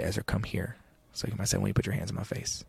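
put-on soft, quiet coaxing of a child; gentle coaxing. Father quietly coaxing his upset young son, gentle. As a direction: coax him close, gently and quietly.

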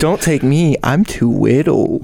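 slow, babyish mock plea; lisped "widdle" pleading; mock baby-talk goat. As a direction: beg like a tiny goat, drawing it out. Mimics little goat in baby talk.

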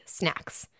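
hushed whisper on one word. Retold or imitated. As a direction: whisper it like a secret reveal. Repeats the reveal.

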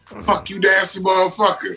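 offended bedmate's mild mock outburst; mock outrage. Woman waking up to her bedmate, mock outrage.

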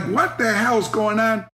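slow, puzzled yell of a man jolted awake; startled snorer. Retold or imitated. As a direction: play the groggy guy blasted by the headset. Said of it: "this guy's going like".

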